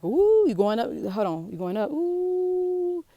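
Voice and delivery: thrilled rider going up, high squeal at the end; mock roller coaster thrill. Teacher miming the coaster climb for students, excited squeal.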